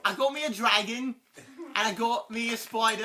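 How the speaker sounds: attempted British accent, put on for fun; playful, shaky-quality British accent attempt; bad British accent. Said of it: "That's not a good British accent".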